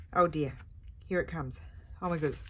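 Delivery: building up to a sneeze; pre-sneeze catch in the breath; about to sneeze. Real, not acted. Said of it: "I'm gonna sneeze again".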